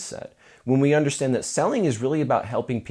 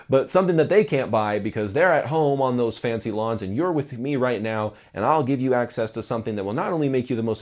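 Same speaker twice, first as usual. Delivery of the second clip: sales voice. Shown as a demonstration. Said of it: "my fun little sales voice".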